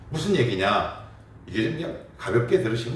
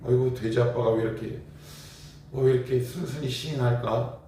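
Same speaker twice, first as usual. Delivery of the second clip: surprised wife; 4 semitones higher than usual. Retold or imitated. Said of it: "제 아내가 이렇게 놀래서 이렇게 물어봐요".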